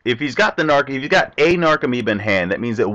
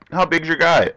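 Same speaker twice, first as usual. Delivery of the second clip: usual speaking voice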